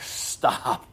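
whispered firm stop; hushed divine command; God's whispered stop. Retold or imitated. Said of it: "And he's like".

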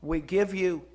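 earnest, projected pastor's prayer; public prayer. Real, not acted. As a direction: lead the congregation in prayer, pressing the key words. Leads the congregation in prayer.

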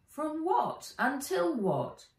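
put-on high, questioning girl; lightly voiced puzzled girl; young girl voice. Nat's voice, higher.

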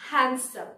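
"হ্যান্ডসাম" as HAN-sum, d dropped; silent d. Shown as a demonstration. Teacher repeating for learners, "হ্যান্ডসাম" as HAN-sum. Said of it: "ডি হচ্ছে silent".

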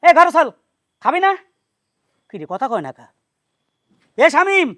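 normal talking voice

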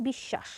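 বিশ্বাস said "bish-shash"; বিশ্বাস with long sh and silent second b; doubled consonant. Shown as a demonstration. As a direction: hold a double sh in the middle of বিশ্বাস. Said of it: "যুক্ত ব্যঞ্জনটির দ্বিত্ব হবে".

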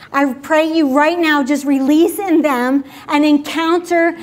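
earnest prayer, pressing each line; fervent prayer. Acted. Pastor praying aloud over the standing congregation, fervent. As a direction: pour it out over them like a blessing.

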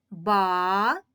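Ба-ран, broken between the syllables. Shown as a demonstration. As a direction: split into БА and РАН with a clear pause. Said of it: "скільки разів ми будемо відкривати ротик".

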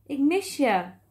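hoog, luid naroepen; roepend. A narrator's reading. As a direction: roep het de verte in. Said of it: "riep hij". (klagend hoog roepen)

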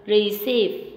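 receive with -CEIVE stressed; stress on second syllable. Shown as a demonstration. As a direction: lean on the last syllable of "receive". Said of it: "âm hai".

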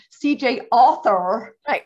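C J author dot com in a light American accent with a flat "author". Shown as a demonstration. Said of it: "I better say that in an American accent so you can understand".

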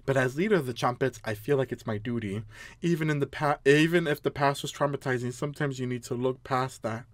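low, soft character voice; solemn leader. Acted. Leader of the Chompets addressing the player, low solemn voice. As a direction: read it low and quietly grave.

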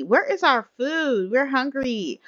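impatient demand. Acted. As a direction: whine for service in mock impatience. Impatient demand for food in game.

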